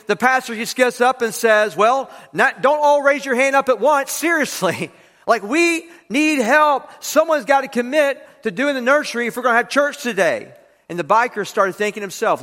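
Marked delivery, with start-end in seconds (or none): 1.8-10.5 dry mock-exasperated appeal with a laugh; sarcastic. Pastor to silent congregation, sarcastically pleading for nursery help. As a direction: needle the congregation for not volunteering. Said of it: "So sarcastically".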